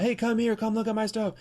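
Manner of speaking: high, mocking call of a booth hawker; mock hawker yell. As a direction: call out like a pushy seller at a convention. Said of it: "yell out".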